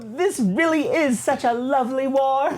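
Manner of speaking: high, gloating droid voice, drawn out; Triple Zero voice. Retold or imitated. Triple Zero gloats to B T over the burning enemy, high and slow. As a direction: savor the carnage like a delighted butler. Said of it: "Triple Zero says".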